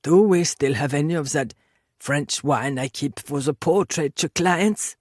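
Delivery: Klimt, unhurried host. Acted. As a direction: ask idly, taking your time. Voices Klimt asking for wine.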